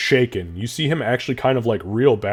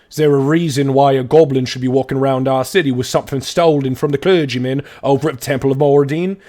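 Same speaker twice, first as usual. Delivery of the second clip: pompous aristocrat; 3 semitones higher, 4 dB louder than usual. Acted. Dwarf aristocrat accuses the goblin to the guards, haughty. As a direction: sneer it out like a pompous noble.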